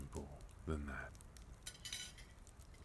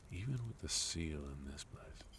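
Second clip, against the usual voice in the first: whisper; 6 dB quieter than usual. Acted. Menacing villain lowers voice.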